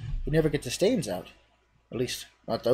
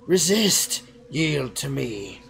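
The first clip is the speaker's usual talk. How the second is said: sweet voice; 3 dB louder, much slower than usual. Acted. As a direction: call him back from the brink. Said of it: "The sweeter voice".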